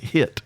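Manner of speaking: "hit" said for "it", H clearly sounded; H in front. Shown as a demonstration. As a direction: open "hit" on an audible H. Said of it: "They'll put a H in front".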